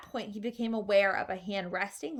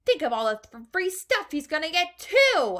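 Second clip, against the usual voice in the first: enviously; 8 semitones higher, 8 dB louder than usual. A narrator's reading. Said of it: "another boy said enviously".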